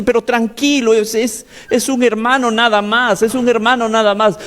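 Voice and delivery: high-pitched imitation of an insistent mother; mother's voice. Preacher voices mother calming her screaming son, high imitated mother's voice. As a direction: raise the voice high, trying to calm a son. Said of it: "su mamá le dice".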